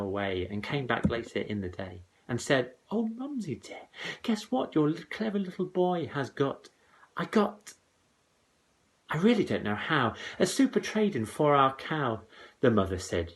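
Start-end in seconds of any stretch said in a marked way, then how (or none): 2.9-12.2 put-on high, eager little boy boasting; high-pitched proud boy; boyish Jack voice. A narrator's reading. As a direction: crow it like a proud small boy. Jack boasting to his mother.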